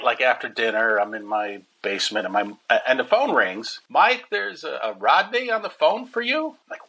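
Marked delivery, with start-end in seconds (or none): 3.9-6.5 mom's voice. Retold or imitated. Mom calling down about phone.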